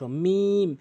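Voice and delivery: "মিম" held long, closing on the dry part of both lips; lip-closing demo. Shown as a demonstration. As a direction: stretch "মিম" and seal the lips on the m. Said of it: "দুই ঠোঁটের শুকনো অংশ". ("মিম" দুই ঠোঁটের শুকনো অংশ মিলিয়ে)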